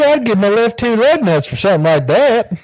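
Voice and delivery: high, loud hick character voice. Retold or imitated. Voice actor retelling a crude character line, loud and high. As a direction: belt it like a crude country boy.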